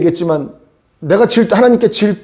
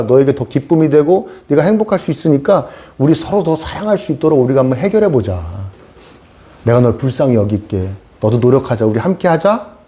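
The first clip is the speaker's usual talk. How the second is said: compassionate God; 3 semitones lower than usual. Acted. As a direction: gently coax as a forgiving parent would. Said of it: "이렇게 불쌍히 여기심으로 바뀌는 거예요".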